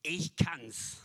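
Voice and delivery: smug self-reliant boast; boastful. Pretend. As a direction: brag like the proud world. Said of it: "was sagen wir hier in dieser Welt".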